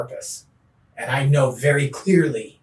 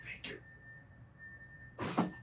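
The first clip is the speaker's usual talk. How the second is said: a soft, breathy thank you; whispered thanks; 21 dB quieter than usual. Shown as a demonstration. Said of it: "I say".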